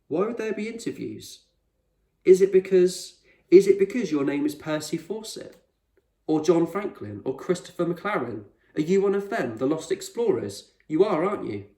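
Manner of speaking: put-on a kid sure he's cracked the secret; excited accusing boy. Boy accusing explorer of identity.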